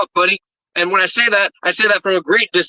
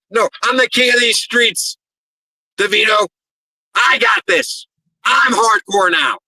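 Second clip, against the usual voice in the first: defiant promo boast; 3 semitones higher than usual. Acted.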